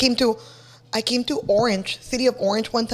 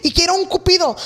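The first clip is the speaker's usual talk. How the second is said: customer voice; 5 semitones higher, faster than usual. Retold or imitated. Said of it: "people that would call me".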